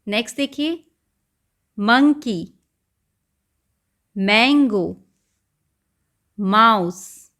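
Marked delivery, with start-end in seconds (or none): 1.8-7.3 each word said loud and separate, with a pause after it; loud, slow phonics drill; phonics word reading. Shown as a demonstration. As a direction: call out each word clearly for the class. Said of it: "तो कौन सा sound आ रहा है शुरू में".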